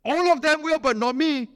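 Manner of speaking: lightly hammed-up boast, big and sure of himself; mock boaster. Preacher mocks a disciple who talks big, a touch of swagger. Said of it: "Talk big, boast".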